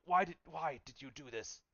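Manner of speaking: a hint of a distressed old man; lightly voiced hurt uncle asking why; pleading old uncle. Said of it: "He's t-, like".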